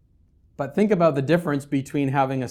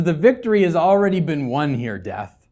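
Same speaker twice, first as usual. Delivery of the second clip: louder, higher mocking taunt; 3 semitones higher, 6 dB louder than usual. Paul taunting death, loud and gloating. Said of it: "Paul's doing the same thing".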